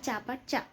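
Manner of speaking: चापा चा said as a short southern phrase; southern way of saying have you eaten. Shown as a demonstration. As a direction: imitate how locals say चापा चा. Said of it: "वह बोलते हैं". (दक्षिण वालों की तरह "चापा चा" बोलना)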